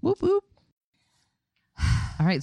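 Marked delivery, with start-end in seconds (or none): 0.0-0.4 cheering. Real, not acted. Cheer after ad.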